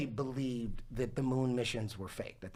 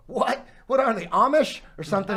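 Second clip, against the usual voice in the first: high, louder disbelieving outburst; incredulous reaction; 6 semitones higher, 5 dB louder than usual. Retold or imitated. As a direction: act out baffled disbelief, pitched up. Retells his disbelief at flat earth.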